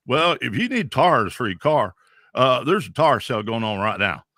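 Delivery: country Okie accent from the Dust Bowl transplants; Okie drawl. Shown as a demonstration. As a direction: talk like a Fresno Okie on the radio. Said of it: "you kind of talk like this".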